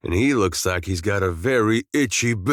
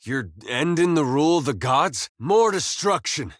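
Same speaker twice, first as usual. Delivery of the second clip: urgent, higher-pitched remonstrance; impassioned protest; 5 semitones higher than usual. Acted. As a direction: warn a god against more destruction, voice pitched high. Pleading angrily with a god.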